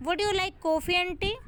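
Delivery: slow question weighted on "coffee and tea"; stress on COFFEE AND TEA. Shown as a demonstration. Teacher demonstrating word stress, "coffee and tea" stressed. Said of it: "coffee and tea पे हम stress कर रहे हैं".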